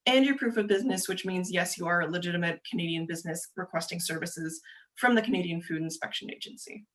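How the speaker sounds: brisk, fast-paced presenter delivery; talking very quickly. Real, not acted. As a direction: speak quickly, rattling through the information. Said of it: "Feel like I'm talking very quickly".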